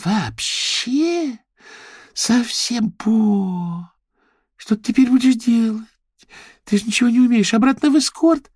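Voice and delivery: high, teasing jabs; high sneering gossip; mocking girlfriend. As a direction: needle her mercilessly. Chloe mocking Paulina.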